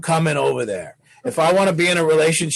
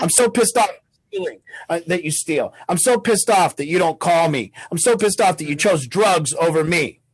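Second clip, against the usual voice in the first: mock pissed off. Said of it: "My truth doesn't sound like".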